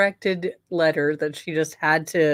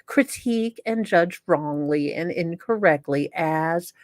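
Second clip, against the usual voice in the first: lightly voiced prim letter writer, self-righteous; reading the letter in character. Host reads inmate's letter to viewers, a lightly voiced prim letter writer. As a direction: read it like the wronged letter writer, only a touch put-on.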